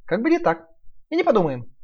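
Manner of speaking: high, firm piglet reply. Acted. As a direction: stand your ground cheekily. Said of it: "твёрдым голосом ответил Наф-Наф".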